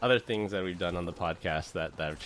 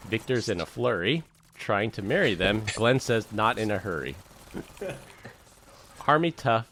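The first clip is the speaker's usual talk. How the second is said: rhythmic, punchy poem reading; roast poem recital; 2 semitones higher than usual. Acted. Friend reading a roast poem to Glenn, rhythmic recital. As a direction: recite each couplet with comic swing.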